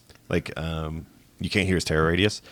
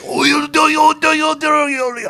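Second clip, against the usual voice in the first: much higher, squeaky doll gibberish; Chucky in the Spanish dub; 5 dB louder than usual. Retold or imitated. Imitating Chucky's Spanish dub for a friend: squeaky gibberish. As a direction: chatter like a tiny frantic doll. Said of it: "that's what it sounds like".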